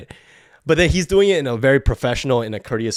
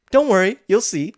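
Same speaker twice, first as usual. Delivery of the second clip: higher, teasing imitation of a veiled threat; lightly voiced, higher-pitched ominous girl; mock sweet menace; 7 semitones higher than usual. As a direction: mimic her smiling threat. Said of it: "smiles in a fucking death glare".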